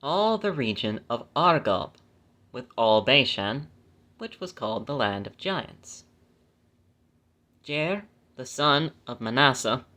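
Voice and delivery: measured, phrase-by-phrase Bible reading; scripture reading. Acted. Reading the law's land grants to listeners, measured scripture reading. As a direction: read the verse out deliberately, stressing key names.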